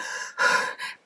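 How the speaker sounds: heavy panting sigh. Shown as a demonstration.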